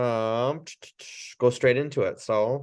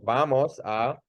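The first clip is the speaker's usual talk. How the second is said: calm instruction; 3 semitones higher than usual. Shown as a demonstration. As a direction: tell them you'll continue. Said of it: "I would go".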